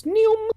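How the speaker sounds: high-pitched "neom" sound effect; imitated zooming noise. Podcaster acting out a comic's action, imitated noise. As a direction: make a quick, high whoosh with the voice.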